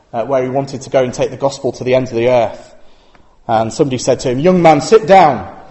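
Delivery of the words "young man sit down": slow, louder broad Yorkshire rebuke; a slow stern Yorkshire elder telling him to sit; Yorkshire accent. Retold or imitated. Old man rebukes young Carey, in broad Yorkshire. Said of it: "broad Yorkshire accent".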